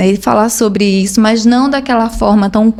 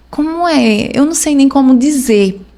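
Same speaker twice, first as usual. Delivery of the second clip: play-acted tearful speech, crying through words; 4 semitones higher than usual. Retelling lying on the floor after bad news: retelling own crying words. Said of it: "e só chorava e ficava".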